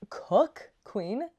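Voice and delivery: loud, high cheering of the author; hype cheer. Real, not acted. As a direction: hype her up like a bestie.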